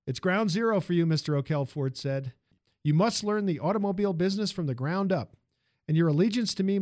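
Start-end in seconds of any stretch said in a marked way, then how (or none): 0.1-1.7 commanding tycoon voice; stern industrialist. Acted. Ford sets terms. 2.8-5.4 commanding tycoon voice; stern industrialist. Acted. Ford lectures.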